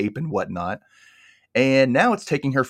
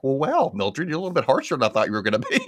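laughing retort; 5 semitones higher, faster than usual. Retold or imitated. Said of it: "I'm like".

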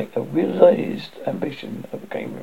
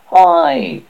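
a sudden high, loud "Hi!"; high, loud hail from the undergrowth; calling out; 13 semitones higher, 8 dB louder than usual. Acted. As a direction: call out to someone you can't see. Hidden boy calls out to another.

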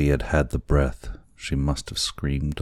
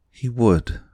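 higher, louder earnest exclamation; crying out; 9 semitones higher, 5 dB louder than usual. A narrator's reading. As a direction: cry it out, pitched high and emphatic. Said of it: "cried Kekua".

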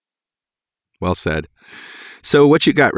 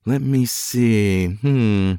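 checking results; 3 dB quieter, much slower than usual. Acted. Nurse checking the blood results.

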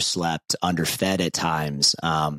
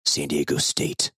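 frat guy voice; 2 semitones lower than usual. Pretend. Proud fraternity alum plugging his old chapter on a podcast, man frat voice. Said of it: "That sets my man frat voice".

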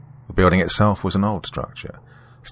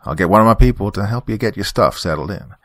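folksy Southern reverend giving friendly orders; easygoing country preacher, a bit quicker at the end; strong country accent; 3 semitones higher than usual. Acted. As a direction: reverend directs the technician around the side, country accent. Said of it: "in a strong country accent".

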